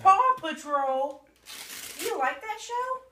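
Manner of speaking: high, slow parent delight; excited. Real, not acted. Parent reacts to gift.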